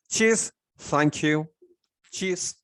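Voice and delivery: One is cheers said slowly, rising on cheers; slow teaching rise on cheers; slow model. Shown as a demonstration. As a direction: draw out cheers for learners. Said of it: "teacher models the word".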